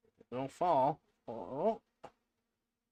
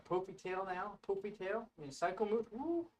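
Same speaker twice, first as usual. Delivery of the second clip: playful pet talk; 8 semitones higher, 7 dB quieter than usual. Real, not acted. Teasing the puffed-up cat.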